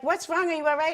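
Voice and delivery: high worried asking; concerned security. Retold or imitated. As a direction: raise the voice in concern. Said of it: "they're like".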